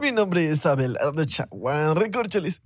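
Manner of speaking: lento, como personaje bobo; preséntate arrastrando un poco, con voz tonta fingida; voz rara de imbécil. Pretend. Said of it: "estabas hablando como raro". (voz impostada y boba)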